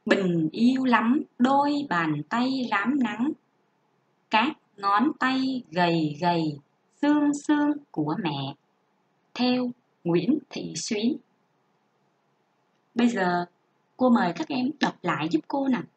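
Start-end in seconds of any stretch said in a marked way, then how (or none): 0.1-11.2 measured classroom reading voice; expressive textbook reading; model reading aloud. Shown as a demonstration. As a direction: read it out clearly for young pupils to copy. Teacher reads model passage aloud.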